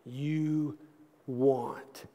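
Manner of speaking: slow, hushed sermon delivery; intimate preaching. Acted. Preacher urging the congregation toward conviction, hushed and slow.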